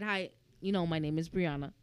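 soft, low, easy self-introduction; smooth introduction. Retold or imitated. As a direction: introduce yourself softly and smoothly. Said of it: "She's smooth".

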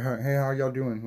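lightly imitated country drawl, slowed down; a little mock country accent. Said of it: "they have, like, the country little accent".

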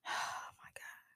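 whispered under the breath; hushed stunned oh my God. Real, not acted. Overwhelmed by the story.

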